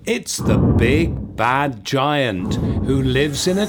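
hammy stage villain intro; theatrical pantomime announcer; booming old melodrama narrator. Acted. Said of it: "another colourful character".

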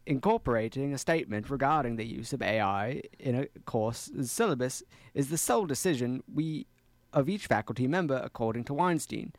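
put-on halting Australian accent. Player juggles accent and reading, Australian accent. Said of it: "doing the accent and reading".

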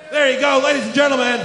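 half-hearted hype-man voice taking a bow; different voice. Pretend. Host congratulating himself on return, lightly put-on announcer voice. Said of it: "I was trying to do it in a different voice".

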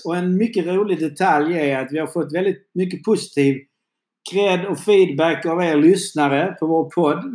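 lightly lifted presenter delivery; podcast host intro. Acted. Host opening the last segment, lively presenter voice. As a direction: welcome listeners back with punchy emphasis.

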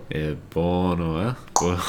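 hammed-up Italian "buono"; mock Italian. Co-host playing along with Italian pronunciation, mock Italian accent. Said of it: "dumb Italian accent".

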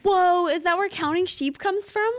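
high-pitched excited wonder; wide-eyed, squeaky-high astonishment; amazed realisation. Real, not acted. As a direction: blurt it out, struck by a sudden discovery. Sudden realisation at the story.

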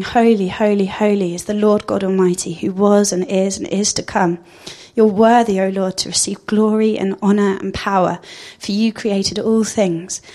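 reverent worship quote. Acted.

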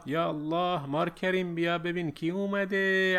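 put-on old man calling his wife to meet the new bride; calling out loud. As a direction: shout for the household to come see. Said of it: "زایر داد زد".

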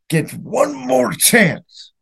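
anguished replay of the final drive; pained what-if. Real, not acted. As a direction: lift the voice and drag every word. Fan repeats the what-if scenario.

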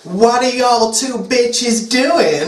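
a pop singer. Acted. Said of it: "said Brittany".

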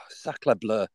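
sighed, whispered mock French exclamation; french chef. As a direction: breathe it out in a jokey French accent. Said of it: "I had sacre bleu Tourette's".

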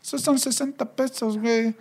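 "güey" in a hint of a Mexican accent; imitating the Mexican taxi driver quoting a fare. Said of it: "y el tipo".

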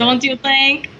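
put-on Russian accent, fishing for agreement; mock Russian accent. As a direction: ask in a fake Russian accent. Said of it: "great accent".

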